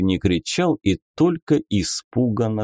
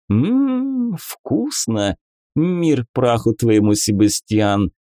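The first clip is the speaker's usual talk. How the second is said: lady inquisitor voice; 3 semitones higher, slower than usual. Acted. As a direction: play a coy, mocking lady. Beatrisa tastes pie. (игривая дама-инквизитор)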